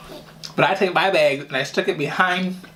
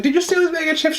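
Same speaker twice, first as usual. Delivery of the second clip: stern grandma; 14 semitones higher than usual. Retold or imitated. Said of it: "she's like".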